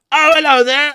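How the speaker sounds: very high, loud squeak; high-pitched marmot squeak; squeaky creature voice. Acted. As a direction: greet them as a tiny critter. Greeting the marmot puppet.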